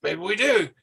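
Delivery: slow, menacing mock macho voice; Randy Savage. Randy Savage squaring off with the cook, slow mock threat. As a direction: lean in, daring the cook to fight. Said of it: "he's like".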